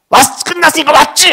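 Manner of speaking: 훨씬 높고 크게 쏘아붙이는 딸 흉내; 짜증 폭발한 고3 딸의 외침. Retold or imitated. 서운한 딸이 소리침. (엄마에게 소리치는 서운한 딸)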